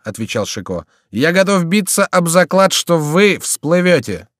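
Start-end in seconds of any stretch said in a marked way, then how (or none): 1.1-4.3 high, loud call back; mock his fear from horseback; raised-voice tease, stretched at the end; teasing wager. A narrator's reading. Chicot teases the panicking rider.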